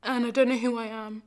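acted desperate outpouring; despairing. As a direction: let the anguish build and burst out. Despairing climax of the monologue.

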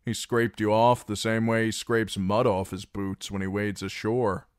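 cutting loud persuasion. Acted. Reek telling the garrison they were abandoned, loud and high. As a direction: twist the knife.

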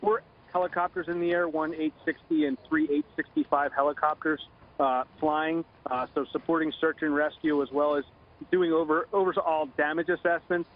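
phone line. Real, not acted. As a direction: voice over a telephone line. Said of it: "Joining us now on the phone".

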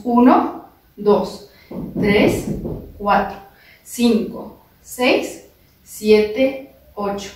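dance teacher counting eight steady beats. Shown as a demonstration. Teacher counting beats for students to step along. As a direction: count the steps out for the class.

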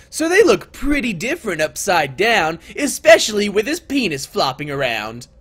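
story narration. A narrator's reading. Narrator describing overturned desks to players, story narration. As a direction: read it out as storytelling.

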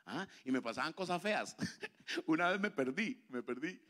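ordinary delivery

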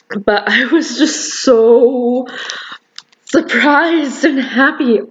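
happy surprise. Real, not acted. Reliving the win.

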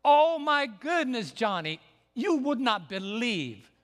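high, loud, slow alarmed cry; fever pitch. Retold or imitated. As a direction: pass on a friend's frantic alarm. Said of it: "his voice was at fever pitch".

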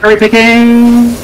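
high, loud, drawn out cry; shouted accusation. Real, not acted. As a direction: yell it out as an accusation. Calling out in game.

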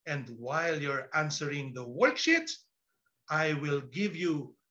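low, slowing teacher's instruction; mock-stern classroom voice. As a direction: draw it out before the next order. Parodied teacher sets up more work.

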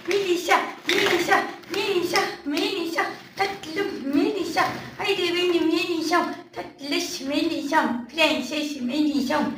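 mother softly coaxing her daughter Melisa; soft calling. Real, not acted. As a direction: coax her gently by name.

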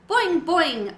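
high, loud bouncy boing; boing like a springy frog. A narrator's reading. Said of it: "Og said".

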